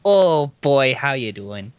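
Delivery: put-on folksy Wisconsin accent; Midwest accent. Showing off a favorite accent to co-host, Midwest accent. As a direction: greet like a harmless Midwesterner, accent on. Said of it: "my favorite American accent is a Midwest accent".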